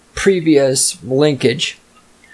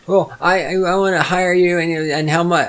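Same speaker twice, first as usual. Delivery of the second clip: higher, stammering mock customer; mock clueless client; 4 semitones higher than usual. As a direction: lightly imitate a dithering client. Mimics client asking about rates.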